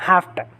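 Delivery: "Have to" said as "hafta"; f sound and weak final "uh" in "Have to"; reduced have to. Shown as a demonstration. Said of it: "they will say only".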